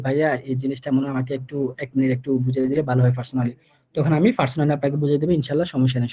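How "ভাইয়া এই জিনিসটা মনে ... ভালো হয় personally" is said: shy student asking. Pretend. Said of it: "message দিন যে".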